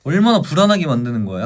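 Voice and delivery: ordinary talk, nothing marked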